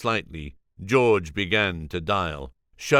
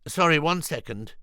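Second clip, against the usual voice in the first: Julian's voice; 8 semitones higher than usual. Acted.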